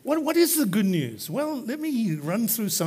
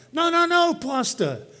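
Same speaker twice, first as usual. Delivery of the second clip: put-on insistent young man; 2 semitones higher than usual. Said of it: "The young man responded back".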